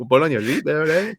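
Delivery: deliberately bad Hispanic accent; a joking fake Hispanic accent; mock Hispanic accent. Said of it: "a Hispanic ass accent".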